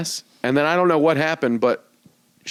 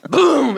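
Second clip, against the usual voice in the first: loud, higher "boom"; crash boom; 8 semitones higher, 5 dB louder than usual. Retold or imitated. Storyteller mimics the car crash, loud high boom. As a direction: imitate the impact with a punched boom. Imitated crash after the singalong.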